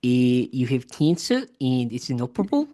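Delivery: a light Australian accent, breezy bad news; deadpan Australian doctor delivering bad news casually; Australian doctor impression. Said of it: "my impression of an Australian doctor".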